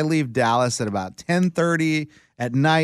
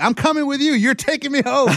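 insistent demand; 11 semitones higher than usual. Retold or imitated. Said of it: "I'm like".

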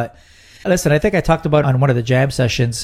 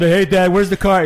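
put-on a little higher, playful teen voice crack; lightly mock a boy whose voice is breaking; imitating son's cracking voice; 5 semitones higher than usual. Dad mimicking his teenage son asking for the car. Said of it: "he's talking like this".

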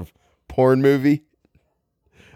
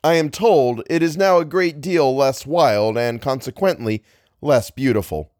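measured, literary reading voice; story narration; 5 semitones higher, 4 dB louder than usual. A narrator's reading. Narrator describing the changed country, story narration. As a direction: read it out with careful phrasing.

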